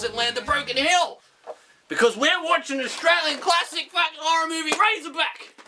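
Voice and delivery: hyped announcement. Pretend. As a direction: announce the film like a trailer.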